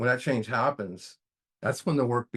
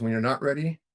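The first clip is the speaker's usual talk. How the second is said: imitating a grandpa's old Southern accent, pitched up; 5 semitones higher, 4 dB louder, faster than usual. Grandpa's saying to his grandson in a Southern accent. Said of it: "he would say in his old Southern accent".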